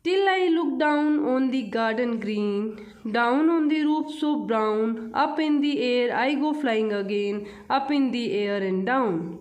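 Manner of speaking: slow, measured reading of verse; poem recitation. Acted. Teacher reading a poem to children, slow recitation. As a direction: read each line out slowly for children.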